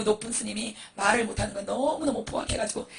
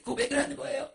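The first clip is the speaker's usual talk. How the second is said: usual speaking voice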